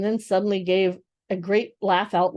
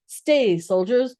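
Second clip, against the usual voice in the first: thundering command; 4 semitones higher, slower than usual. Acted. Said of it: "thundered Tyrion".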